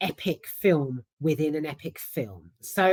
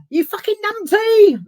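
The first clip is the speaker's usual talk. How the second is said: loud, high London insult; hammed-up high London shout; mock yell; 8 dB louder than usual. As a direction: bark it like the film producer again. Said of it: "I love that".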